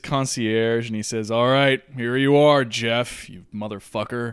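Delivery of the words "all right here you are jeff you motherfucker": demon voice. Acted. Demon addressing Jeff in hell.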